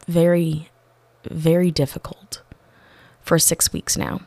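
whispered aside. Real, not acted. Confiding about difficult customer.

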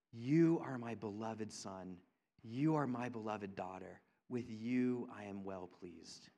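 hushed, loving declaration; tender heavenly Father. Retold or imitated.

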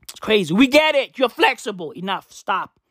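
ordinary talk

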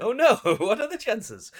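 high, loud feigned surprise; mock innocent. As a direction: play it coyly innocent. Mock-innocent after innuendo.

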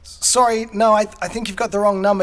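imitating a polite refusal. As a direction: play a dad politely turning away a caller. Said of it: "he's so polite".

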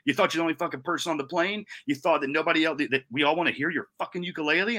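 high-pitched incredulous rant; mock his excuse in exasperated disbelief; retold angry snapping. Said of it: "So I snapped at him and yelled".

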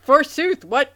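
mock old-world English, hammed up; hammy stage actor. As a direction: ham it up like a Shakespearean actor. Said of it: "I don't speak old world English".

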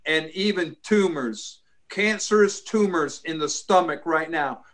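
commanding prayer voice; deliverance prayer. Acted. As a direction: rebuke spirits in prayer, firmly. Commanding prayer over cancer.

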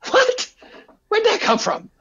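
high, loud disbelieving what; high-pitched startled double take; shocked what. Retold or imitated. Father shocked by son's remark.

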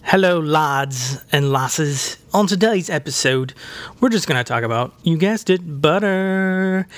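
lightly put-on Irish accent for the podcast; mild mock Irish brogue. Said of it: "with a little bit of an Irish accent there".

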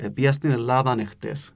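Ελλάδαν run straight into εχτες; Cypriot linking n. Shown as a demonstration. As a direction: link the n of Ελλάδαν onto εχτες. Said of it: "μόνο όταν ακολουθεί φωνή εν το προφέρουμε". (κυπριακή προφορά με νι που δένει Ελλάδαν εχτες)

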